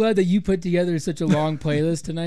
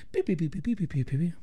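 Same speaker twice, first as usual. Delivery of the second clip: mock censor beeps; 6 dB quieter, faster than usual. Shown as a demonstration. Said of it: "let me show you my radio voice".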